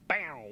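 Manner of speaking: short "bow" sound effect; imitated gadget noise. Host describing the new watch they want, spoken sound effect. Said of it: "I don't know the technical terms".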